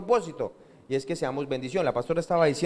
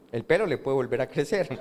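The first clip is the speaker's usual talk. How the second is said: laughing; 4 semitones lower than usual. Real, not acted. Preacher joking about own baldness.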